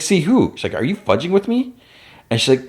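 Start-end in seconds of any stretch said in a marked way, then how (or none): 0.0-0.5 pitched way up, puzzled; high squeaky question. Retold or imitated. Retold confused quote. 0.7-1.7 pitched way up, disbelieving; squeaky, can't believe it; high incredulous voice. Retold or imitated. Retold annoyed quote.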